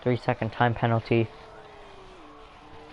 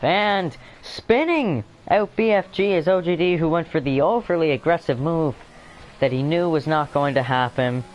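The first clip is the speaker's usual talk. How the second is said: excited; 5 semitones higher than usual. Real, not acted. Crash called in race commentary.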